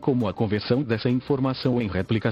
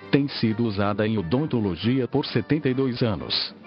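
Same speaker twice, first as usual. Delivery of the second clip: synthesized voice. Real, not acted. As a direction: read it like a computer voice. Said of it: "falo através desta voz sintetizada". (voz sintetizada de computador)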